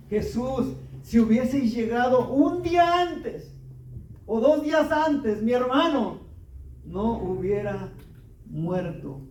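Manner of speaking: Mary pleading with Jesus through her grief; grieving plea. Acted. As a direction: voice Mary's tearful reproach, dying away. Mary's tearful plea to Jesus.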